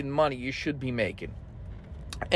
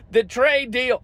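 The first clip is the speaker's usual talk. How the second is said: higher, sarcastic repeat of the phrase; mocking echo; 4 semitones higher, 3 dB louder than usual. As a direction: sneer it back like a slogan. Repeats phrase, then mocks it.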